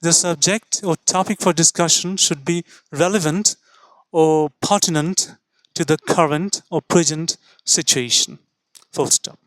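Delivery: slow careful example sentence read out; teacher dictating the example sentence; slow dictation. Shown as a demonstration. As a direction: dictate the sentence slowly for notes. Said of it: "এরকমটা বলা যেতে পারে".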